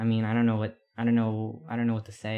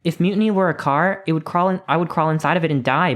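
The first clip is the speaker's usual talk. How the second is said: higher and louder, a fervent bellow; 6 semitones higher, 3 dB louder than usual. A narrator's reading. Parade fan in a mutiny t-shirt, loud fervent bellow. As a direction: belt it out like a crazed fan. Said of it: "bellows a man".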